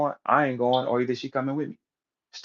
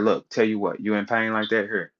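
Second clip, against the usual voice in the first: soft offer; 3 semitones lower than usual. Retold or imitated. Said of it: "She said".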